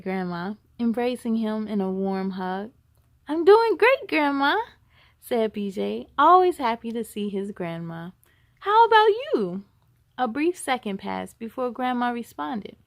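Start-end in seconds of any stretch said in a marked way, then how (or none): 3.3-4.6 put-on high, loud cheerful kid; happy child. A narrator's reading. 8.6-9.6 put-on eager child. A narrator's reading.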